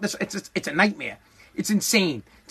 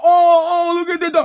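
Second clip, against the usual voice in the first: much higher, louder gushing over a dog; hammed-up dog lovers cooing; mock cooing; 8 semitones higher, 4 dB louder than usual. Pet owners gushing over a dog, a high mock coo. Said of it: "They all".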